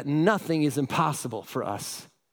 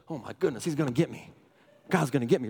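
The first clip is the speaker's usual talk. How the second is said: hushed, lower, scared mutter; mock fearful; 6 semitones lower, 4 dB quieter, faster than usual. Mocking churchgoers who fear God will get them. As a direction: cower and whisper like someone hunted. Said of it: "they're like this, looking over their shoulder".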